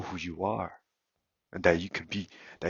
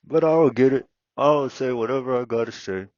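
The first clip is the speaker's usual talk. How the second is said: defiant shout; 6 semitones higher, 11 dB louder than usual. Real, not acted. Defiant outburst.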